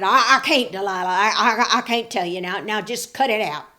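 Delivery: stumble, then push her off; flustered Samson. A narrator's reading. Samson refusing Delilah, flustered and stammering. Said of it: "And Samson said".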